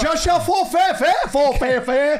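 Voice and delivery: high, silly pretend-French gibberish; hammed-up mock French accent; fake French. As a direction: improvise nonsense in a French accent. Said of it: "can you do French?".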